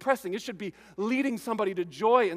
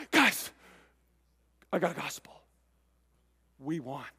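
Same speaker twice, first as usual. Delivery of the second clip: breathless; 4 semitones lower than usual. Acted. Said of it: "he's out of breath".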